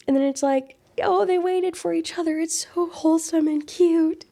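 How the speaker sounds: high, squealing delight over the couple; gushing excitement. Real, not acted. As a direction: gush like a fan over a ship.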